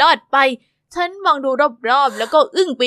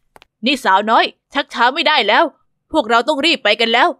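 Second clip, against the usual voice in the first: a hint of a firm bodyguard; young guard Arthur; 3 semitones lower than usual. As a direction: urge the girl along. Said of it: "หนุ่มสูงหล่อ".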